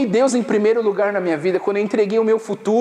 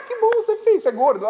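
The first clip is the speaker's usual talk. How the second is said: laughing; 12 semitones higher, much faster than usual. Real, not acted. Shrugging off being called ugly, laughing it away. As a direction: laugh through the words.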